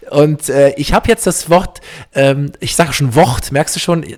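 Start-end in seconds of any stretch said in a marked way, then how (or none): 1.5-3.5 "Wort" with a hard ch for the r, like "Wocht"; ostbelgische Aussprache. Shown as a demonstration. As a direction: say "Wort" as East Belgian "Wocht". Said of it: "der Ostbelgier sagt ja Wort". (ostbelgisch ausgesprochen, „Wort“ wie „Wocht“)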